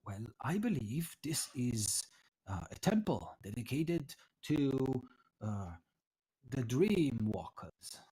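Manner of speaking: lilting scholar, slowing on the key name; lightly voiced old tiefling, fascinated. Tiefling tells visitors whose temple it is, lightly voiced and intrigued.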